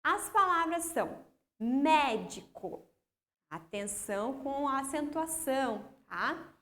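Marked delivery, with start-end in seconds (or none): 1.6-2.8 "médico" slowly, split mé-di-co; syllable by syllable. Shown as a demonstration. Teacher reading out test words to pupils, "médico" syllable by syllable. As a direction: separate "médico" into syllables, MÉ strongest. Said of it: "já trouxe separadas em sílabas".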